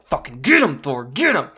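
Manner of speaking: root for Thor like in the theater; cheering Thor on. Retold or imitated. Fan in the theater urging Thor on, loud cheer. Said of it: "and you're like".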